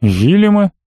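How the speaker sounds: удивлённый вопрос, голос выше; переспросить в недоумении; непонимающе. A narrator's reading. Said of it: "непонимающе спросил барон". (барон переспрашивает о сыне, недоумённо выше)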